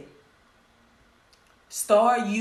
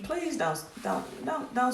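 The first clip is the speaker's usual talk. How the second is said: high, pleading repeated don'ts; 6 semitones higher than usual. Real, not acted. To followers who email her badly, a high pleading don't. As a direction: beg them to stop, pitch jumping up. Pet peeve plea to followers.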